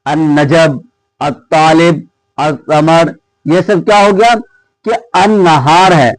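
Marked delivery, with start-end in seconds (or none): 5.2-5.9 अन्नहार said an-nahar, the lam silent and the nun held long; doubled nun. Shown as a demonstration. Teacher repeating the word to explain the silent lam, doubled nun. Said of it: "direct नून पर क्या पड़ रहा है".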